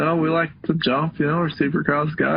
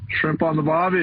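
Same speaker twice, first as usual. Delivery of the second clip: put-on Aussie accent. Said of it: "give us your best Aussie accent".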